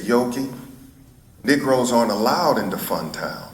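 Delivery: understated retold sadness; sad. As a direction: break it to a child gently, a touch sad. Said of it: "looked at her sadly and said".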